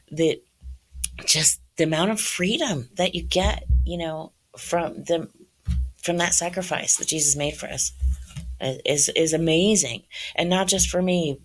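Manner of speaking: speaking through tears of gratitude; teary voice. Real, not acted. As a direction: still teary, voice lifted and strained. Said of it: "so I get teary when I think about this".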